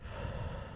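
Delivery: quiet, breathy exhale; long breath out to calm nerves; re-enacted deep breath. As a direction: act out a steadying breath on stage. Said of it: "you can see me go".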